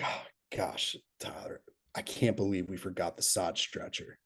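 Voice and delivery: mock frustrated whisper. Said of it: "acting like he was so frustrated".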